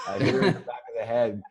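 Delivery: laughing through the confession. Real, not acted. Telling podcast hosts about hitting his future wife, laughing. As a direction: chuckle as you admit it.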